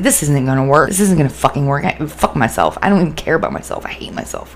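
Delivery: retold self-doubt, sinking away at the end; dismissive inner grumble; skeptical grumbling. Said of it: "because I was a skeptic".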